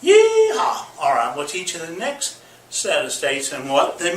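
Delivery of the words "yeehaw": high, loud yeehaw cry; cowboy yeehaw. Pretend. Host whooping yeehaw at the class.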